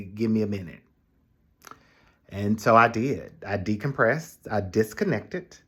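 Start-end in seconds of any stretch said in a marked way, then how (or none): 0.0-0.8 calm firm pause. Retold or imitated. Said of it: "I could stop to say".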